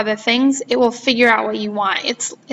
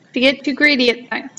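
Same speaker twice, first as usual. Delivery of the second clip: talking while chewing gum. Real, not acted. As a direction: speak around a wad of gum. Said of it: "I'm chewing gum".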